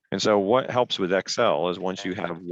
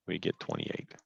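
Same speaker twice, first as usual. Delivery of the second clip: robot voice from headset delay; robotic, glitchy headset sound. Real, not acted. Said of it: "Do I sound like a robot".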